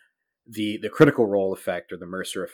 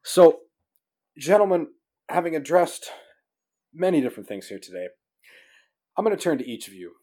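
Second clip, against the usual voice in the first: mock game-show host; 7 semitones higher than usual. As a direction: play the pompous host turning to his guests. Host's mock-formal segue to guests.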